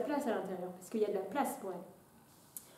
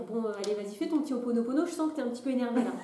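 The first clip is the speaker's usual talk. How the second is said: mocking pushy voice; 3 dB louder, faster than usual. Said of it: "c'est pas la personne qui va dire".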